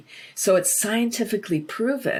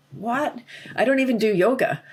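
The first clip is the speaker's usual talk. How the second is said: surprised what; 5 semitones higher than usual. Retold or imitated. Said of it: "I was like".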